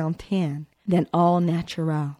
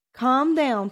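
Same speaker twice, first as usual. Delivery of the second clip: reassuring; 8 semitones higher than usual. A narrator's reading. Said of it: "reassuring them both with a warm smile".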